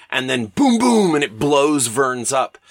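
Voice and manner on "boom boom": imitated explosion. Imitates airship blowing up Verne's.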